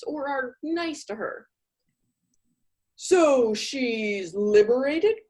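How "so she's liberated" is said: mock puzzled. Accountant quote mocked.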